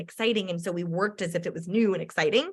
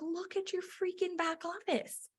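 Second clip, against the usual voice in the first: stern; 9 semitones higher, 10 dB quieter, slower than usual. Retold or imitated. Upline insisting firmly.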